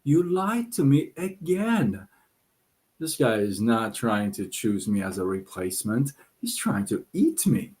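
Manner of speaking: donkey. Acted. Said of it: "The donkey says".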